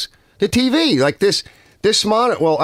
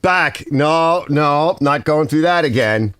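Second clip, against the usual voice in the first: emphatic refusal; 6 semitones higher, slower than usual. Retold or imitated. Streamer refusing a repeat software update, high mock protest. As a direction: brush off the update like it's poison. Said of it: "I was like".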